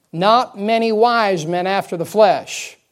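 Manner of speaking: slow, loud, emphatic scripture reading; slow right down and land each word loudly. Shown as a demonstration. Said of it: "we'll try to slow her down a little".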